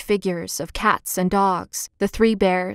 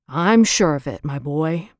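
a kind, lower grandfatherly reassurance; kindly; 5 semitones lower than usual. Acted. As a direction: reassure the boy gently. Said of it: "returned Mister Cordyce kindly".

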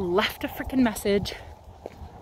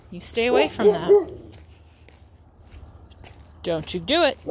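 louder, insistent command to a dog; firmer warning; 3 semitones higher, 4 dB louder than usual. Real, not acted. Owner warning her dog off a can, firmly. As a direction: repeat the order with more force.

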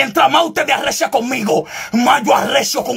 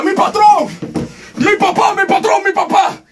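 mock flattery; 5 semitones higher than usual. Preacher mocks people who praise only givers, fawning voice. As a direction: mimic the flatterers buttering him up.

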